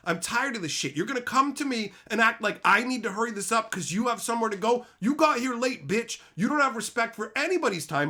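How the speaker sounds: retold rant at a latecomer, building in force; worked-up retelling of a telling-off; fed-up chewing-out. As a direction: lay into a latecomer, punching the key words. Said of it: "I just got sick of it".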